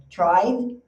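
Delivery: "tried" with the d coming in right after the vowel; quick tried. Shown as a demonstration. Teacher drills the past tense tried for students. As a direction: glide straight from the vowel into the d of "tried".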